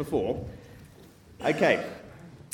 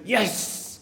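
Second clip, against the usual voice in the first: a bit excited. Shown as a demonstration. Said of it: "a bit more excited".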